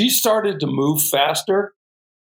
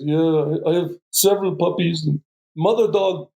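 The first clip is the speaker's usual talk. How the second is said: put-on Russian accent; 5 semitones higher than usual. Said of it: "Heavy Russian accent".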